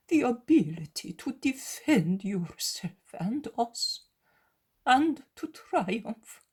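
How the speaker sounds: the zealot pleading with his master, anguished. Acted.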